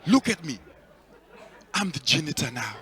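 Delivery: loud, barking, laughing robbery orders; hammed-up stick-up shout; mock robber. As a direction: play a robber holding up the room.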